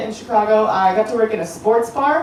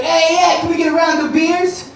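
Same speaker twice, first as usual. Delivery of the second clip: some guy would be like; 7 semitones higher than usual. Retold or imitated. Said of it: "some guy would be like".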